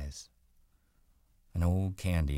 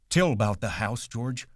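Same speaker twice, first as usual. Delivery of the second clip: put-on higher and louder, pleading like a child; begging Lenny; 7 semitones higher, 5 dB louder than usual. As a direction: beg for the story you love. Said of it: "Lenny begged".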